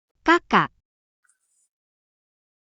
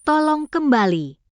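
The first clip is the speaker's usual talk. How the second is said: pleading; slower than usual. Acted. Begging her child to return.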